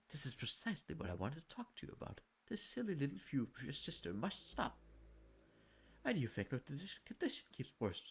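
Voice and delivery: lightly voiced stern mother, measured; a hint of a stern Victorian mother. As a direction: speak as a disapproving mother. Mother scolds Aaron.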